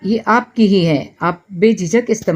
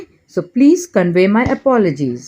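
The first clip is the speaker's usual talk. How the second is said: very slow, every word laid out clearly; slow model phrase; much slower than usual. Shown as a demonstration. Teacher slowly models an English apology for Hindi learners. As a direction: say it slowly so learners can repeat it. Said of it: "क्या कहूँगी?".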